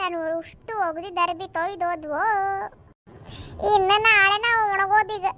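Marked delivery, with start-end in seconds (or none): 0.0-2.2 lower, softer comic whimper; mock crying. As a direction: whine tearfully over the wet laundry. Wailing over soaked washed clothes.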